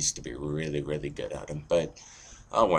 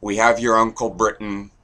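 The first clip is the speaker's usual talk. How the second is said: dismissive big brother; 4 semitones higher, 4 dB louder than usual. Acted. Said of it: "And we're like".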